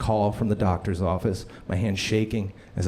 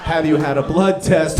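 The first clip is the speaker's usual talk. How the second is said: alarmed question; 4 semitones higher, 5 dB louder than usual. Retold or imitated. Doctor's alarming question, punchline.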